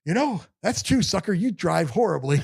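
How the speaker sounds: high, laughing mock insult; a grieving man laughing as he jabs at Danny; laughing tease. Man laughing while teasing Danny about his driving.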